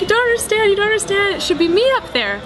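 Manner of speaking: imitating her seven-year-old self wailing; a child insisting it should be her on stage; sobbing child. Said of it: "I'm like".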